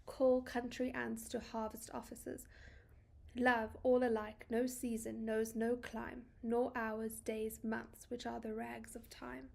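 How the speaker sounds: measured, deliberate reading of verse; a gently paced poetry reading; poem recitation. Acted. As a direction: read each line as poetry, letting pauses land. Reads the poem aloud.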